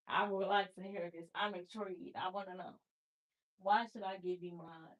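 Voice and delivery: softly feigned curiosity; mock-polite quiet. Real, not acted. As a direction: lean in, falsely intrigued, almost hushed. Mock-polite challenge to viewer.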